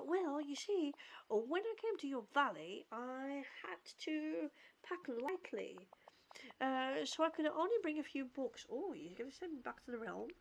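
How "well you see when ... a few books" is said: measured read-aloud of a character's lines; lightly performed storybook-style read; reading dialogue aloud. Acted. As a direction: read it out with careful, lightly acted phrasing. Reads game character's dialogue aloud.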